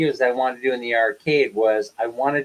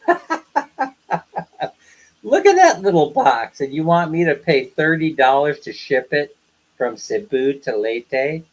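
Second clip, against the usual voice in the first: upset. Retold or imitated. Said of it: "I was upset".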